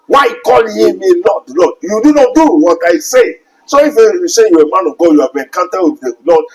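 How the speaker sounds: stern preacher's demand; pressing rebuke. Acted. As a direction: challenge the false pastor.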